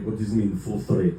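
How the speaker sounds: puzzled dad, FULL STRAIGHT in his foreign-sounding pronunciation; lightly voiced dad querying "full straight"; imitated dad. Dad asks son about coming out, mildly puzzled dad voice. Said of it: "and he was like".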